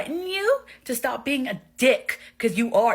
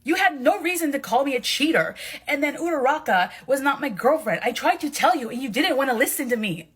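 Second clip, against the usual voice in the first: heated quarrel; 4 semitones higher than usual. Acted. Heated quarrel over an insult.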